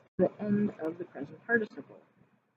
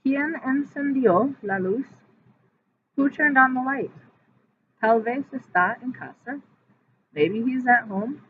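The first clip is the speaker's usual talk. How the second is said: Luisa voice; 6 semitones higher, 7 dB louder than usual. Acted. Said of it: "Luisa dice".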